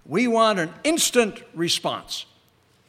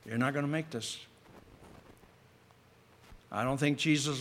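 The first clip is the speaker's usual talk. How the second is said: tempter's voice; 6 semitones lower, 9 dB quieter than usual. Acted. Satan's voice planting seeds of doubt.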